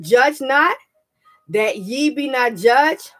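slow, measured scripture reading. Shown as a demonstration. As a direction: read it out like holy writ. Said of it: "Matthew chapter one".

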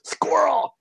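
sudden high yelp like the dog in Up; squirrel outburst. Retold or imitated. Imitating the professor spotting a squirrel, high dog-like yelp. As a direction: blurt it out like a distracted dog. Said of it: "He'd be like".

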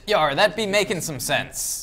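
slow, loud pirate drawl. Acted. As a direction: savour it like an old pirate. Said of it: "I not be liking the non-pirate voice".

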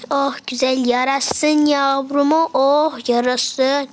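slow, cooing enjoy your food; fond, drawn-out motherly coo; tender feeding. Pretend. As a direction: coo to the baby as it drinks, slowly. Feeding the baby doll.

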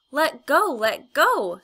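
high shrieking scream. A narrator's reading. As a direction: scream it out in panic. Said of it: "screamed Polly".

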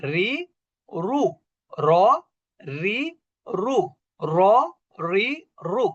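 র রি রু with র as rounded "ro", not "raa"; rounded r drill. Shown as a demonstration. Teacher drilling the letter for pupils, rounded r. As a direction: drill র রি রু, drawing out the vowels. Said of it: "তাহলে কি হবে?".

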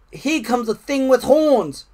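high, loud animal alarm; rabbit's warning shout. A narrator's reading. Rabbit warning Frog of the horned thing, shouting. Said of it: "shouted a rabbit".

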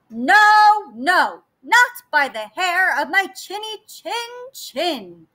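little pig voice. Acted. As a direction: refuse firmly like a piglet. Pig refuses.

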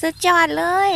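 excited. Real, not acted. Repeating her praise.

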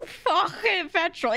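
airy, throaty mock accent, drawn out and high; exaggerated accent mimicry, amused; imitating Apple's pronunciation. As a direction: say "fucking petrol" slowly with air in the "k". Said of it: "What is, what is this air?".

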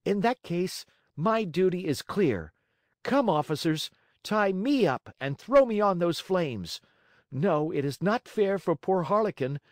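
high, piercing brave puppet; small hero's high-pitched declaration. A narrator's reading. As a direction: proclaim it proudly, high and insistent. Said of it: "said in a piercing voice".

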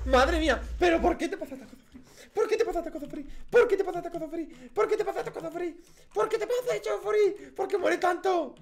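high, loud, laughing in disbelief; laughing shriek. Real, not acted. Gamer laughing hysterically at himself after dying again. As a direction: shriek through laughter at yourself.

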